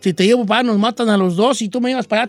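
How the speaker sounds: protesta apurada del enamorado; objeción alarmada. Acted. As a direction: discute con la muchacha, un poco más agudo. Voices the worried boyfriend objecting. (objeción alarmada, actuada)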